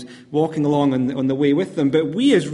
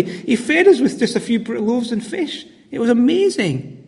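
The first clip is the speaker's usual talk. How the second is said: higher, eager storytelling with a laugh; excited disciple; 4 semitones higher than usual. Acted. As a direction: gush about the miracle you saw. Disciples excitedly recalling Jesus' miracles.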